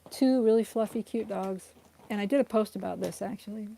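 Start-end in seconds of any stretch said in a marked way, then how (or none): 2.1-3.7 losing voice. Real, not acted. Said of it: "Sorry, I'm losing my voice".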